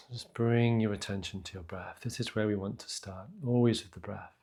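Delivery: unhurried meditation voice with long pauses; guided meditation. Real, not acted. Teacher grounding listeners in breath and feet, guided meditation. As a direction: gently guide them into the breath.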